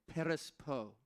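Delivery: perispo for the congregation to repeat; call-and-response perispo. Shown as a demonstration. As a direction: lead the room in saying perispo. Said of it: "Everybody say".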